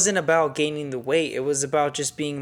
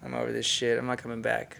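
fed up; 4 semitones lower, 7 dB quieter than usual. Retold or imitated. Quoting his fed-up reply to therapist.

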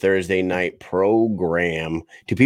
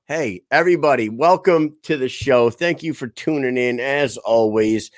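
upbeat sponsor plug; ad read. Acted. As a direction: pitch the merch like a host reading an ad.

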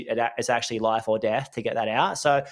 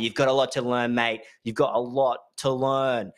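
funny voice. Retold or imitated. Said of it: "definitely not in that voice".

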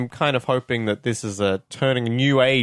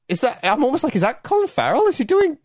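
retold disbelief; 11 semitones higher than usual. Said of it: "You're like".

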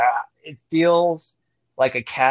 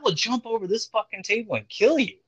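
mock threat; 8 semitones higher than usual. Offended boxer threatening the dealer across table, mock menace. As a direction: imitate an affronted boxer threatening someone.

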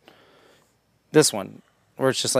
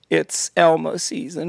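cartoon hunter's slurred announcement; lightly voiced despairing cartoon hunter; hopeless Elmer Fudd; 3 semitones higher than usual. Hunter turning the season on himself, hopeless. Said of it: "hopeless Elmer Fudd".

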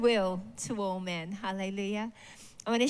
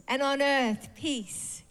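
heavenly host praising; 4 semitones higher, slower than usual. Acted. Heavenly host voiced in reading.

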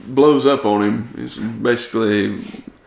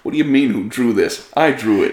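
put-on New York accent. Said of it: "full-on New York accent".

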